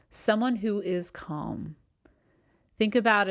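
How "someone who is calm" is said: slow, settled and steady; slow right down and let "calm" rest. Shown as a demonstration. Coach modelling the person others gravitate towards, calm and slow.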